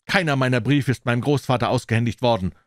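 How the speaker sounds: firm, stern reproach; a stern young man accusing the butler. Acted. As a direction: lay down the charge sternly. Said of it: "sagte Mister John streng".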